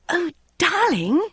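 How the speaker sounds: slow, high, loud coo. A narrator's reading. Mother coaxing Bridget onto the show, high slow coo. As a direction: coax her sweetly, high. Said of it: "she cooed".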